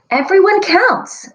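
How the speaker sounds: loud, high group shout; shouted together. Acted. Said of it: "the numbers shouted".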